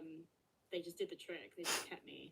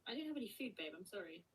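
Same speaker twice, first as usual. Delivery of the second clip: pet talk; 5 semitones higher, 13 dB louder than usual. Real, not acted. Talking to the dog.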